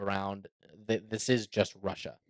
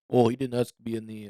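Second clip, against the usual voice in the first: put-on a weak, barely there Russian accent as Putin; half-hearted Putin in a Russian accent; mock Russian accent, mostly his own voice; bad Russian accent. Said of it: "that was my worst Russian accent".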